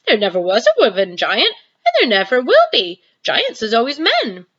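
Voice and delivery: shouting. Acted. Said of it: "shouted the B F G".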